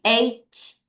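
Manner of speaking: eighty with strong EIGH, weak ty; EIGH-ty, light short ending; stress on the front. Shown as a demonstration. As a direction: hit EIGH, let ty drop short. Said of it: "앞을 강하게".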